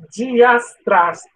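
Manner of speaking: slow, effortful try at diastrática; careful slow syllables. Real, not acted. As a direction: sound out diastrática slowly, syllable by syllable. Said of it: "é muito difícil falar".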